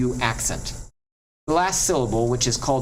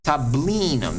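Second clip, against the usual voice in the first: "tablinum" stressed on BLI; penult stress; 2 semitones higher, slower than usual. Shown as a demonstration. Teacher gives another second to last example, middle syllable stressed. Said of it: "on the second to last".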